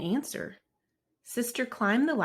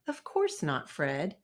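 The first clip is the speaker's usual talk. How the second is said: a touch of soothing comfort; 3 dB quieter than usual. Acted. Mama comforting guilty Fred, mildly soothing. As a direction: gently reassure the cub. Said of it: "soothed Mama".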